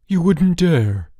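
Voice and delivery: high, loud, drawn-out protest; outraged cry. A narrator's reading. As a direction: cry out in alarm, stretching the words. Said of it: "cried George".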